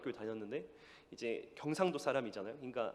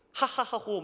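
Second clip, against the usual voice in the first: mock crowd laughter; 6 semitones higher, 4 dB louder, slower than usual. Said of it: "막 웃으면서".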